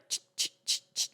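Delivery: soft, spaced ch clicks; imitated button presses. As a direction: mimic mechanical button taps. Mimics pressing machine buttons.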